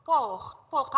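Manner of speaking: "Port" with a clear O vowel; O pronounced as O. Shown as a demonstration. Teacher correcting pupil's aéroport, "Port" with clear O. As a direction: model "Port" with the O fully sounded. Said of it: "ال O بننطقها O".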